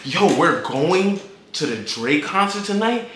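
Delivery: slow, hushed retold question; awed, drawn-out checking; stunned disbelief. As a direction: let it sink in slowly, questioning. Retold disbelief at concert news.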